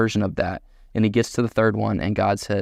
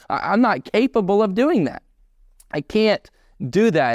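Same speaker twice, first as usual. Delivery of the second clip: pleading Moses; 5 semitones higher than usual. Retold or imitated. Preacher voicing Moses begging God to send someone else, building higher. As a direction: start as a worried excuse and climb into panic.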